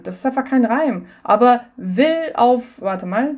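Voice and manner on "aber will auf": slow rhyme demo. Shown as a demonstration. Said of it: "wie war das mal".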